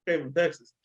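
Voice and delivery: put-on a light, joking Texas accent. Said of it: "That's the funniest Texas accent I've ever heard".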